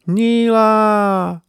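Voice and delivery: high, loud desperate call across the sky; crying out a name. A narrator's reading. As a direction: shout her name as you fall. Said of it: "he cried".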